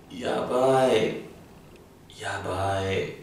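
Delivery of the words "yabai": excited. Shown as a demonstration. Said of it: "it depends on how you say it".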